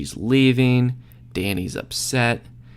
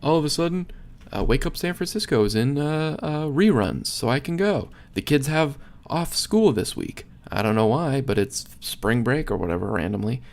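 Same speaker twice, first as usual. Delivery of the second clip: mock excited Danny; 4 semitones higher than usual. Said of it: "and it's like".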